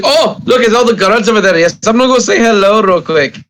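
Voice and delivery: a breezy guard off to say hi. Acted. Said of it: "and then".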